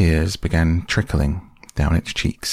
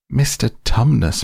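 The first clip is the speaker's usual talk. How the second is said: higher, louder shout of his name; bawling; 6 semitones higher, 4 dB louder than usual. Acted. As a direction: bawl it right into his ear. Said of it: "bawled Lucy in his ear".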